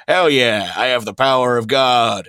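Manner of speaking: half-strength impression of a raving yeller; imitated unhinged yelling. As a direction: imitate an unhinged guy crowing in triumph. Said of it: "more and more unhinged and just yelling".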